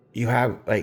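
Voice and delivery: ordinary talk, nothing marked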